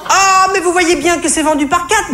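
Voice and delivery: put-on squeaky put-upon sales girl; yelping shop girl. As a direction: yap it out like an irritated cashier. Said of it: "glapit-elle au sortir d'un soupir agacé".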